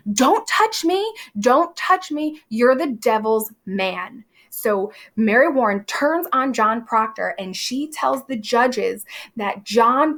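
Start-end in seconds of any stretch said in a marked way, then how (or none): 0.1-4.3 high, panicked mock scream; a touch of terror, pitched way up; frightened scream. Mary screaming at Proctor to keep away, high mock scream. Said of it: "Mary Warren screams out".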